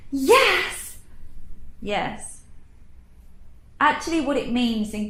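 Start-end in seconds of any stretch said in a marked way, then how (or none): 0.1-1.0 high rising yes; "yes" as a surprised question. Shown as a demonstration. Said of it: "when you change the tone of yes". 1.8-2.4 "yes" dropped low and soft; low, falling "yes"; flat low yes. Shown as a demonstration. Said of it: "when you change the tone of yes".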